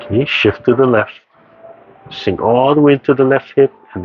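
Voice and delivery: calm, measured movement instructions; serene tai chi cues. Acted. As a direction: guide the class gently through each move. Guides tai chi moves.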